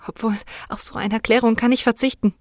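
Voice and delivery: understated indignant retort; angry. Acted. Daughter brushing off her weeping mother, mildly angry. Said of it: "sagte ich erbost".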